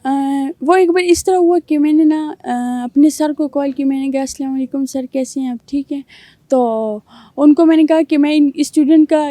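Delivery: a young man's put-on girlish voice, held through the story; girl's voice. Young man telling the host a story in his put-on girl's voice. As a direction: tell the whole story as a girl would. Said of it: "آپ لڑکی کی ہی آواز میں بتائیں".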